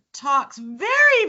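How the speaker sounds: drawn-out "talks very"; slow down to show the slow talker; slowly spoken; slow demo. Shown as a demonstration. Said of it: "very slowly".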